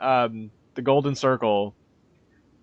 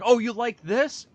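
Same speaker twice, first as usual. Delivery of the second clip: mock studio voice; 6 semitones higher than usual. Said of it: "It's like".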